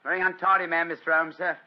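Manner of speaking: Holmes lightly putting on a working man's voice; detective in disguise as a gasfitter, lightly voiced; disguised British workman. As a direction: play a humble tradesman at the door, a touch rough. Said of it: "a typical example of the British working man".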